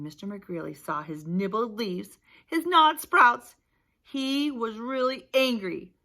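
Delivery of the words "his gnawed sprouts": slow, louder, higher stress on gnawed; dramatic storybook emphasis; emphatic reading. A narrator's reading. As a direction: lean hard on gnawed, drawn out. Reading angry gardener's damage.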